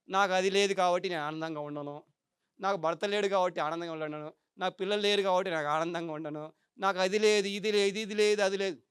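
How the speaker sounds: low, subdued litany of lack; mock complaining. Speaker mimicking people who refuse to be happy, mock complaining.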